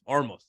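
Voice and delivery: Olmos said as Ormos; L turned to R. Retold or imitated. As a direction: teammate repeating Olmos as Ormos. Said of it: "'Cause they can't say the L".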